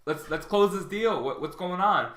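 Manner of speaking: upbeat pitch to close the deal; enthusiastic. Shown as a demonstration. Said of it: "Be enthusiastic and be like".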